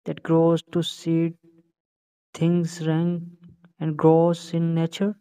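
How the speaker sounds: slow, lightly acted soliloquy; measured stage recitation with a touch of drama; reciting Hamlet. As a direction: declaim it slowly, phrase by phrase. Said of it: "तो शुरू करें फिर Hamlet की first soliloquy".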